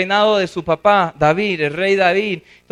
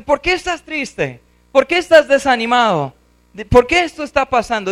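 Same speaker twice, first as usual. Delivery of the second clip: questioning his own soul; 6 semitones higher than usual. Acted. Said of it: "¿A quién está hablando? A su alma".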